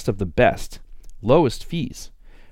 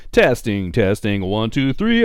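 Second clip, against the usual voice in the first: mic check, rising; slower than usual. Shown as a demonstration. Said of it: "mic check".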